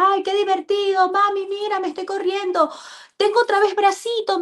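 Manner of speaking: put-on high-pitched child calling to mom; retold child's joyful cry; excited little child. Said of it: "yo escuchaba que Mati saltaba, decía".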